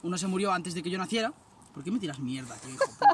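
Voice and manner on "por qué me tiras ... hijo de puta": furious shout of real annoyance; real angry outburst. Real, not acted. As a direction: yell at the friend who threw it. Friend throws something at him.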